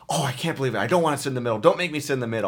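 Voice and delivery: imitating a fussy passenger's whine of protest; mock complaining. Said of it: "She was a complainer".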